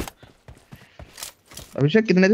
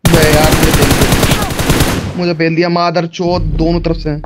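loud, slow frustrated groan; frustrated outburst; 6 dB louder than usual. Real, not acted. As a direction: vent after dying. Frustration after being killed.

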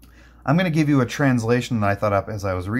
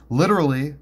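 ordinary talk, nothing marked

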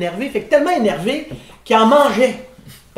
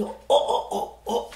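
whispered, breathy exclamations; 9 dB quieter, slower than usual. Retold or imitated. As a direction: breathe it out in awe. Man spotting the truffle fly. (oh chuchotés)

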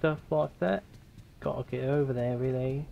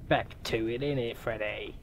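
put-on British accent; 2 semitones lower, 6 dB quieter than usual. Player urging Freddy along, mock British accent. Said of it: "I'm doing that British accent".

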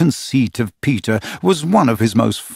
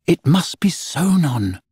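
patronizing; 7 semitones higher, slower than usual. A narrator's reading. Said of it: "just a little patronizingly".

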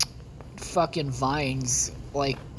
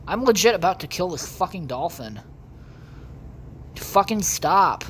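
angry yell; 3 semitones higher than usual. Real, not acted. Angry at dolphin in game.

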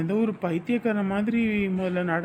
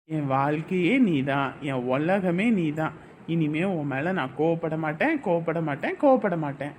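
tender promise; 5 semitones lower than usual. Acted. Husband promises wife tenderly.

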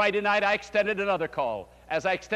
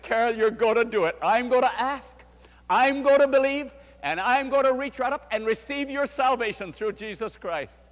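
rising, louder and higher with faith; fervent urging; 6 semitones higher, 5 dB louder than usual. Retold or imitated. Pastor urging Carol to believe, louder and higher. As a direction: build it up like a revival promise.

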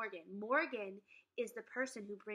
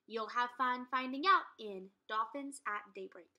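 blurb reading. A narrator's reading. Reads the blurb aloud.

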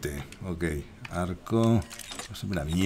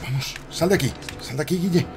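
urgent; 8 semitones higher than usual. Real, not acted. Urge a Guille a escapar.

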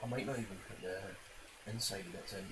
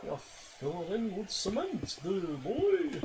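excited cheer; 10 semitones higher, 6 dB louder, much slower than usual. Real, not acted. Cheering his building on.

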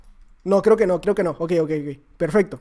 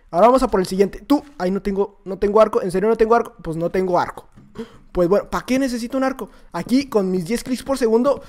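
ordinary delivery

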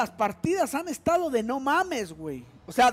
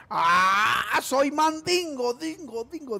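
mock troll voice; slower than usual.

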